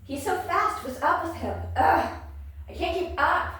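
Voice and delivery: high, loud frantic exclaiming; exasperated panic. Acted. Reader voicing a fighter who can't keep up, exasperated. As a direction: call out in frustration as you fall behind.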